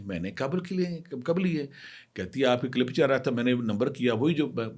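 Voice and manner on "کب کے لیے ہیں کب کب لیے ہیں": pitched up in disbelief, retelling his own reply; incredulous retort. Retold or imitated. To the caller claiming he took the money, pitched-up incredulous question. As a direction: ask it like an accusation makes no sense.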